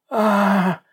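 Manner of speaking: high loud fake cry of pain; high, loud put-on scream; feigned scream. A narrator's reading. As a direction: scream as if struck by stomach pain. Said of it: "закричала она".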